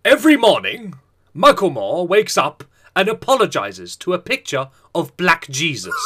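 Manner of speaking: grand movie trailer read; lightly epic narration. Acted. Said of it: "Read it out in an epic voice".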